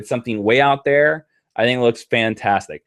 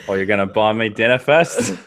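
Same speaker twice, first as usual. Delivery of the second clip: attempted Australian accent; 5 semitones lower than usual. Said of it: "You have to be Australian".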